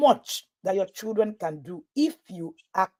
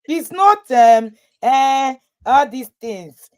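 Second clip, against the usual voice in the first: evasive hemming; 2 semitones higher, 4 dB louder, much slower than usual. Acted. Coach dodging a friend asking how she did it, evasive. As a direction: hem and haw with stretched-out words. Acts out an evasive, hesitant answer.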